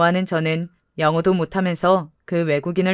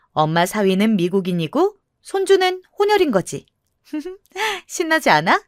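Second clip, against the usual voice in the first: giddy teasing. Acted. Daughter teases mother.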